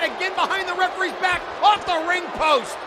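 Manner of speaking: normal talking voice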